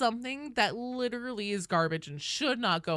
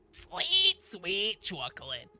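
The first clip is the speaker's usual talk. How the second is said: put-on old lady voice; 2 semitones higher, slower than usual. Quoting SpongeBob old lady.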